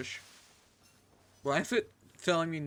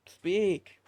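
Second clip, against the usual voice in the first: louder, higher command; 5 semitones higher, 8 dB louder than usual. Real, not acted. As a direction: bark the order at the pet. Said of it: "Speak for me".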